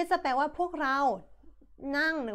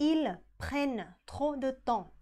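ils prennent trop de temps, very slow; slow model sentence; much slower than usual. Shown as a demonstration. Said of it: "รูปสุดท้ายที่ผ่านก็คือ". (อ่าน ils prennent trop de temps ช้าๆ)

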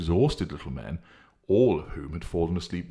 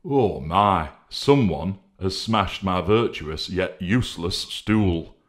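crying out; 4 dB louder, slower than usual. Acted. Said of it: "cried Honesty".

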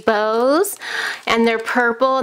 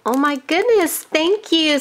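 bright raised "thank you"; overjoyed, thank her warmly; higher, thrilled thanks; 6 semitones higher than usual. Real, not acted. Thanking the sender for embellishments.

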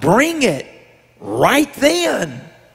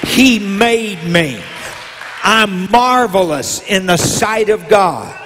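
rising preacher cadence over organ; preaching. Acted. Preacher rousing the church to believe in themselves, preaching. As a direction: preach it out to the congregation.

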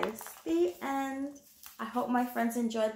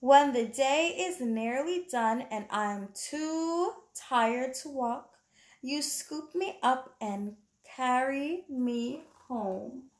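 soothing bedtime reading; 3 semitones higher, slower than usual. Acted. Reading the picture book aloud.

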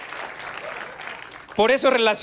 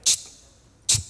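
parent's hushing chit. Retold or imitated. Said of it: "Esa famosa de".

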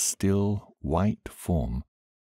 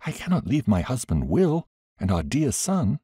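earnest; 7 semitones higher than usual. A narrator's reading. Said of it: "said earnestly".

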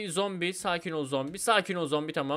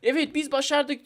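lightly acted victory line, high and slow; voicing the game's message; 8 semitones higher, 3 dB louder than usual. Player voicing the game's win message, lightly acted announcement. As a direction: announce it high and drawn out, half playing. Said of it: "Diyor ki".

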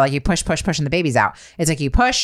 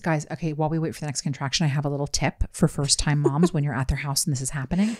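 whispering; 2 semitones lower, 6 dB quieter than usual. Retold or imitated. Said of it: "I'm whispering".

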